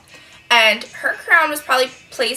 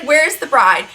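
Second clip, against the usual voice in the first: mock yell, louder than usual talk; retold scream; 3 semitones higher, 5 dB louder, slower than usual. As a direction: imitate his yelling without fully screaming. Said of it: "he's screaming".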